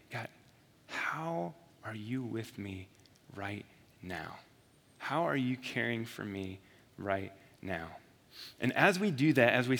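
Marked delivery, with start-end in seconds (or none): 0.1-8.0 soft, low, slow prayer; hushed, unhurried plea to God; praying. Shown as a demonstration. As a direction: ask God quietly, taking time over the words. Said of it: "we can pray".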